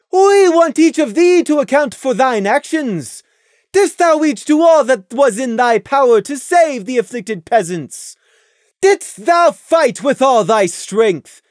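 high, loud royal interrogation; imperious moon princess; stern princess Luna. A narrator's reading. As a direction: press them like a stern royal judge. Luna demands an account.

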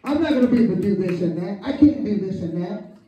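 fast whiny moan with a laugh; lightly voiced complaining prayer; mocking a complainer. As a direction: parody someone griping to Jesus. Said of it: "put your hands together".

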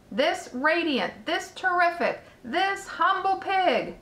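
lightly voiced fair announcer, proud and formal; ceremonial announcer. A narrator's reading. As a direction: present the prize with measured pomp. Loudspeaker's prize speech at the fair.

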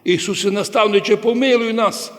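quick imitation of blind men calling for mercy; retold crying out. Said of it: "вони так кричали".

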